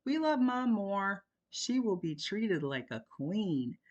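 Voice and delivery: put-on high, loud boy's voice, slowing at the end; teen yelling down stairs. A narrator's reading. A boy yells playfully downstairs. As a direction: son yells down to his dad, teasing. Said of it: "yelled down the stairs".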